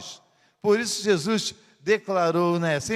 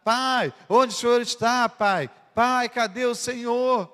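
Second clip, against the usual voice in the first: calling out; 4 semitones higher than usual. Acted. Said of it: "começou a gritar".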